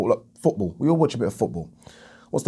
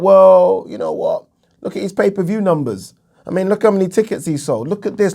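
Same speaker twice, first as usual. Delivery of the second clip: mimicking fans' excuses; 5 semitones higher than usual. Fans justify the bigger draw's share, mock persuasive. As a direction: imitate fans pleading a case, pitched up.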